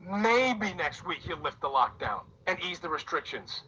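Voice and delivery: soft, slow, wistful hoping; hopeful wishful quote. Retold or imitated. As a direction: murmur it like a hopeless wish. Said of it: "we're sitting here and we're going".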